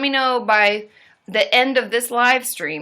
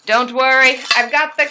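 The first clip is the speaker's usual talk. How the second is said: ordinary talk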